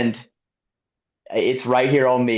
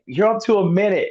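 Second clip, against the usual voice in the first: much higher mock shout of the gap; retold call-out; 9 semitones higher than usual. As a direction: yell the lead across the course, imitating. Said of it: "they started yelling out the lead".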